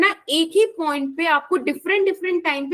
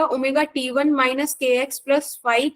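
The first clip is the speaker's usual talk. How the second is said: slow dictation; much slower than usual. Shown as a demonstration. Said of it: "teacher dictates the derivation".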